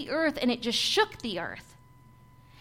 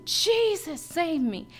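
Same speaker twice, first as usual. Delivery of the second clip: retold screaming; 4 semitones higher, slower than usual. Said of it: "just screaming the name of Jesus".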